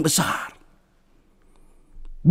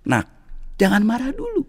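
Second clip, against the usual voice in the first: calm; 6 semitones higher, 7 dB quieter than usual. Acted. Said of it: "berkata dengan tenang".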